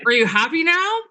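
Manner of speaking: high, sulky and pouting; petulant. Acted. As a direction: snap it back like a sulky kid.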